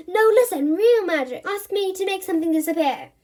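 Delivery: high and loud, pleading to be believed; eager insisting. Acted. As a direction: push hard to convince.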